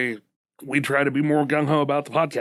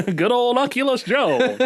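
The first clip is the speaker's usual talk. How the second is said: high, giggly laugh through the words; 11 semitones higher, 3 dB louder than usual. Real, not acted. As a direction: crack up while saying it. Shared joke, both laughing.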